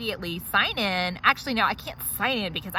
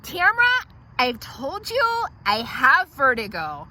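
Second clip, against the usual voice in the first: whiny complaint; 3 semitones higher, slower than usual. Acted. Whining about vertigo in the chair.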